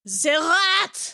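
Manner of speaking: put-on high exclamation in a French accent; mock outcry. Host recalling Ratatouille to co-host, hammed-up outcry. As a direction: cry out like an outraged French cartoon character.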